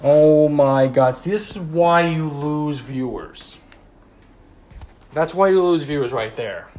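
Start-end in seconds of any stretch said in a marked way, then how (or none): 0.0-3.6 exasperated. Retold or imitated. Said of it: "And I'm like".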